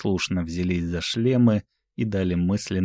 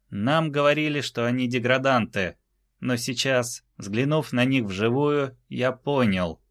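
голос Титана; 6 semitones higher than usual. Acted. Речь Титана перед толпой.

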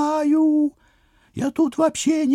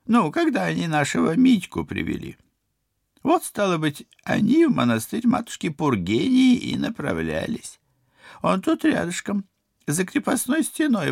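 put-on patient old woman; 11 semitones lower than usual. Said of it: "терпеливо, как щенку лопоухому".

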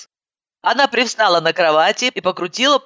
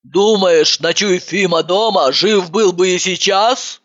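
sad. Acted. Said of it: "грустно спросила она".

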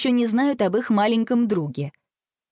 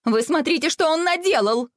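indignant; 8 semitones higher than usual. A narrator's reading. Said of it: "возмутилась мама".

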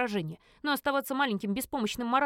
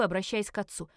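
ordinary delivery, nothing marked

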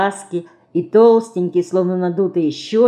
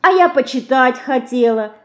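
understated disappointed whine; regretful; 8 semitones higher, 4 dB louder than usual. A narrator's reading. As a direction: lament a spoiled plan, lightly. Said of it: "с сожалением говорит мышка".

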